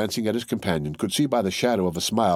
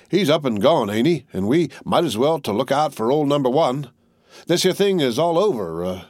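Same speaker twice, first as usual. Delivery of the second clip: weary tattered soldier; 5 semitones higher than usual. Acted. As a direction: shrug off the death, then admit he's ailing. Tattered soldier's long speech.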